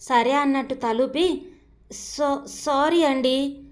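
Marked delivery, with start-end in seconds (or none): 1.9-3.6 sheepish apology. Acted. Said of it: "అంది చేతులు నలుపుకుంటూ".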